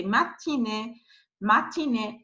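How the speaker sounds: "matinée" as ma-ti-né, N sounded; French "matinée" with no nasal vowel; normal vowel. Shown as a demonstration. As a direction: keep the I of "matinée" plain, then a clear N. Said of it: "I don't pronounce this one".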